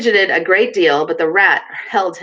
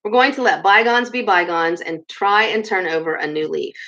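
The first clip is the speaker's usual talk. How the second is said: kindly. Acted. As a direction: soothe him kindly. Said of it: "went on Badger more kindly".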